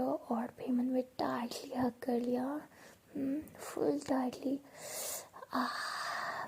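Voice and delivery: hushed, intimate whisper; soft whisper. Acted. Bhavna teasing Piyu with a pretend romance, soft whisper. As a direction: breathe it close like a secret.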